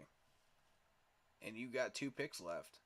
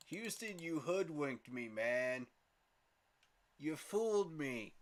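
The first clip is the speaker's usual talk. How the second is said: outraged; 5 semitones higher, 5 dB louder, slower than usual. Real, not acted. Rival team steals his pick.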